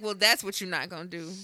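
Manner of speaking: even, understated imitation of mom; matter-of-fact mother. Mama vetoing the balcony toss, matter-of-fact. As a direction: shut the plan down without any fuss. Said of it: "in a very matter-of-fact voice".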